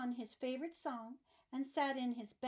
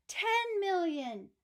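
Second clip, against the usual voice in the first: slow, louder and higher bid; archduke's shout; 6 semitones higher, 7 dB louder, slower than usual. Acted. Archduke shouting his final offer, slow and loud. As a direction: bellow the offer slowly. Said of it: "shouted the archduke".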